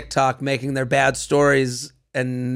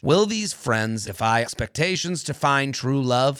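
ad read. Acted. Sponsor ad read.

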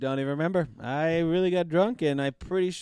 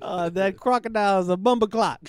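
mock Jamaican accent; 3 semitones higher, 4 dB louder than usual. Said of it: "That's Jamaican".

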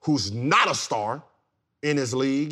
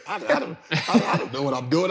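laughing; 4 semitones higher, faster than usual. Real, not acted. Laughing at his own rant.

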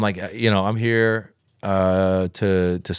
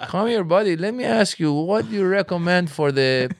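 dad voice; 4 semitones higher than usual. Retold or imitated. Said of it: "yell across the room".

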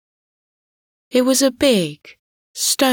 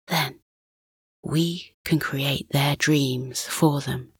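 soft hushed whisper; hushed suspense; 4 dB quieter than usual. Acted. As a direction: whisper so the sleepers don't wake. Father explaining quietly to son at night.

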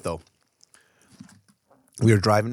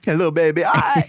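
put-on cooing at a baby; 6 semitones higher, 4 dB louder than usual.

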